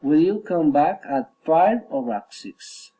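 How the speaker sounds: up on "five", down on "six"; rising then falling. Shown as a demonstration. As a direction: lift "five", then drop "six" to finish. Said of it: "rising and falling intonation".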